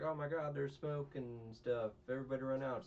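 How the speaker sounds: loud, alarmed shout, slowing on the smoke line; retelling a security guard yelling about smoke; panicked guard. Retold or imitated. Security guard shouting everyone out, loud alarm.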